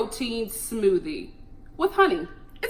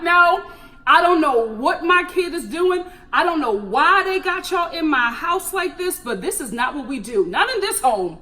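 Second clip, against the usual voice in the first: imitating stern dad; 4 semitones higher, 3 dB louder than usual. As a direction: voice the no-nonsense father, lightly. Voicing Tayshia's dad.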